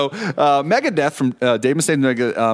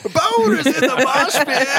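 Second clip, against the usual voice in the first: sound drop voice; 12 semitones higher, slower than usual. Pretend. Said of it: "hit the sounder".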